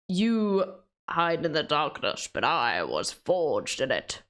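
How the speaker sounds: Bane impression. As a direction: menace the hero from the dark, lightly. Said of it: "Bane says something like".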